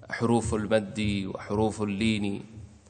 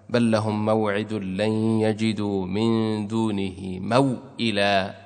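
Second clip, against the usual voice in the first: Quran recitation; slower than usual. Acted. Quran verse recited slowly.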